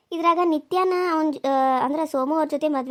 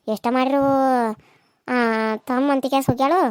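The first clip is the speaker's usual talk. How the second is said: louder, complaining village elder; gossiping old woman; 4 dB louder than usual. Acted. Old woman complains about Kamala to the aunt, loud grumbling.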